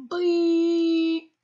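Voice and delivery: long loud high held beep; long censor beep. Pretend. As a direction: hold one long shrill bleep. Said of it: "Just a really long".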